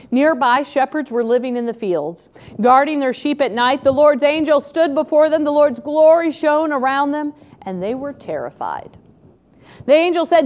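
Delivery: measured reading of the Christmas verses; scripture reading. Acted. Preacher reads the shepherds passage to the congregation, measured scripture reading. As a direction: read the passage aloud to the congregation.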